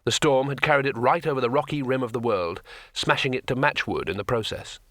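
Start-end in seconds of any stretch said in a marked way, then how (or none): none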